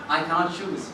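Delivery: low, softened fatherly reply; soft refusal. Retold or imitated. Father refusing to pick between kids, soft. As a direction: decline gently, dropping pitch and level.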